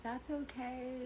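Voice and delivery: high, slow imitation of a tipsy woman; tipsy sweet girl. Tipsy customer to the bartender cutting her off, high and sweet. Tipsy girlfriend being cut off, retold.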